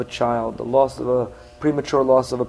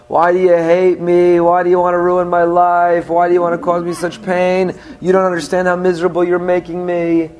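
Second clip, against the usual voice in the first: put-on louder, dragging wounded teen protest; whiny teenager; 3 semitones higher, 4 dB louder than usual. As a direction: wail at the parent like a wronged kid. Teen child protesting parent's rules.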